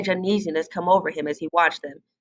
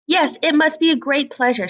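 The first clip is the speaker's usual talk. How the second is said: sarcastic; 7 semitones higher than usual. Acted. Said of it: "said the hen".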